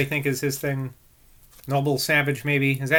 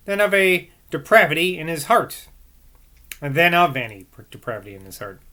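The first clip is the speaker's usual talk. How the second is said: measured book narration; formal read-aloud; 3 semitones higher, 6 dB louder than usual. A narrator's reading. Reader giving Boswell's view of Rousseau, formal read-aloud. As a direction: read the long sentences out with care.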